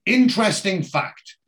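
slow, portioned-out big claim; dramatic build-up. Real, not acted. Host presenting croupier trivia, dramatic build-up.

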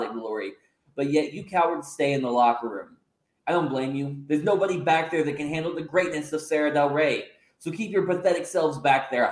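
slight haughty sneer in a near-normal voice; lightly voiced arrogant heel. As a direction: boast down at him, only lightly put on. Heel champion addresses roster.

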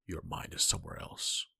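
low, accusing Kratos. A narrator's reading. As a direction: call her out for drifting. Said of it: "Kratos says accusingly".

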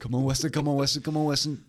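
urgent coaxing plea; pleading. Pretend. Urging a future self on.

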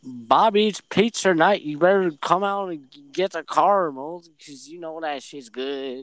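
put-on stuffy cartoon character, starting loud; stuffy cartoon guy. Calling Bobby out on pizza night, stuffy cartoon voice. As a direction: lightly play a stuffy animated sitcom type. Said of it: "Sounds like a really stuffy guy from The Simpsons".

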